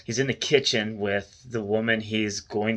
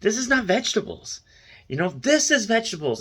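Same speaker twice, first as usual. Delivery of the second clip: put-on broken Russian-accented English, pitched higher; 10 semitones higher than usual. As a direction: imitate a blunt Russian guy with a Russian accent. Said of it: "this Russian guy goes in there and he's like".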